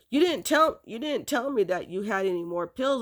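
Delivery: sharp, high, accusing question from the mother; a retold mother's angry scolding; mad mom. Mother catching her child hiding pills, mildly angry. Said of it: "Mom was so mad".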